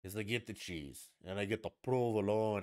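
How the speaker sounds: mock cooking-show host; affected recipe patter, showy "provolone"; imitating a celebrity TV cook. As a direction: linger on "provolone" with an exaggerated Italian ending. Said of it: "And she's like".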